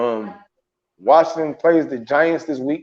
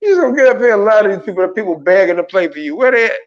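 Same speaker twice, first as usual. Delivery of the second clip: fast, higher-pitched incredulous challenge; mock confrontation; 4 semitones higher, 3 dB louder, faster than usual. Host calling out the coach over players begging to play, mock incredulous. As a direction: call out a liar in mock outrage, pitch jumping at the end.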